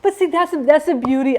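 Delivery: high and loud, laughing out; laughing retraction; giggling confession. Real, not acted. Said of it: "I can't stand Rugrats".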